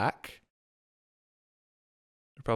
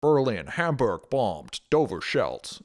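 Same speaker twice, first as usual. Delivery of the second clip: nasal vintage newsreel announcer; old-time news bulletin read; 1940s news voice; 4 dB louder than usual. Shown as a demonstration. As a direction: bark the headline like 1940s radio news. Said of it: "in a nasally nineteen forties news voice".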